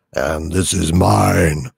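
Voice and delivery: very low, slow, drawn out. Acted. Host topping the sidekick's manly voice, deep. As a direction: outdo the other with a deep slow voice. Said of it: "my manly voice".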